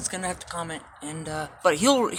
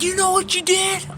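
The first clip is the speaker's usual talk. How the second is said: mock angry guard; 12 semitones higher, 6 dB louder than usual. Guards confront him about suds.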